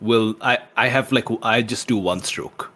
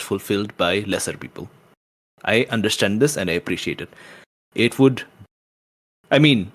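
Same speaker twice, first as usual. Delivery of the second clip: persuading the patron. Acted. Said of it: "kind of lean up and say".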